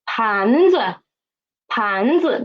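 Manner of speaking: teacher's model 盘子, 子 stepping down after rising 盘. Shown as a demonstration. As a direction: lift 盘, then drop a light 子. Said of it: "The neutral tone is lower too".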